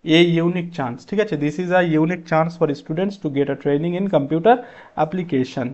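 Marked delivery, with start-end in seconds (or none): 1.4-5.7 unhurried dictation of the full sentence; slow reading of the answer. Shown as a demonstration. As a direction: read the corrected sentence slowly, word by word. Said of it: "Option A is the right answer".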